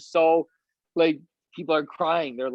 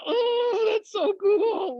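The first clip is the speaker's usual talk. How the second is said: very high, stretched-out mock squeal of delight; giddy squeal; much slower than usual. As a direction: squeal it slowly, overcome with glee. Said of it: "giddy, like, almost like you wanna giggle".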